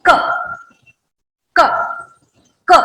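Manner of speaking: क said crisply with no puff of air on the palm; unaspirated ka. Shown as a demonstration. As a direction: clean क, breath held in. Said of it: "और हम कहेंगे".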